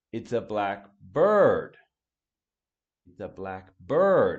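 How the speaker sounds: stress on bird with pitch rising. Teaching pronunciation, demonstrating stress on 'bird' with rising intonation. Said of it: "You hear how my intonation rises?".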